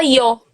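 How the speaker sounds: "iô" dito como "i-ô", com I vogal no começo; iô com som de I. Shown as a demonstration. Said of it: "como se fosse um I". ("iô" pronunciado como I mais Ô)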